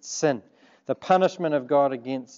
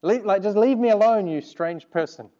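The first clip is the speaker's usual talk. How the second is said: pitched-up protest, falling away at the end; exasperated retort; 4 semitones higher than usual. Retold or imitated. Mocked schoolboy to the girl, exasperated brush-off. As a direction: replay a flustered plea to be left alone.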